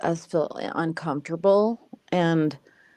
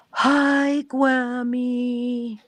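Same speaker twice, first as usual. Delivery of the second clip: put-on little girl voice; 7 semitones higher, much slower than usual. Grandmother imitating granddaughter's tiny hello. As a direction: squeak it like a three-year-old. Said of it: "Her little voice, she goes".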